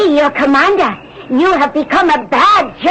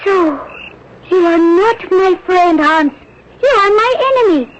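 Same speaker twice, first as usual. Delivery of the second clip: higher, tearful accusation; 4 semitones higher than usual. Acted. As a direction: accuse him through rising tears. Confronting Hans, tearful.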